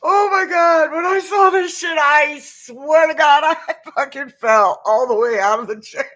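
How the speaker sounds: high-pitched, laughing exclamations; cracking up. Real, not acted. Telling viewers about falling out of the chair, cracking up. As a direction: tell it while losing it to laughter. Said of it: "I can't even hold a straight face".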